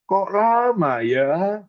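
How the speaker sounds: a waiting man asking why it takes so long; puzzled Daniel. Retold or imitated. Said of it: "Daniel bilang".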